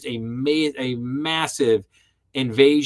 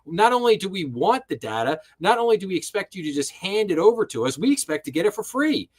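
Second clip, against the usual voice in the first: imitating indignant protesters, pitched higher; mock outraged disbelief; 4 semitones higher, faster than usual. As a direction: act out affronted disbelief, half-mocking. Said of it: "they lost their minds and were like".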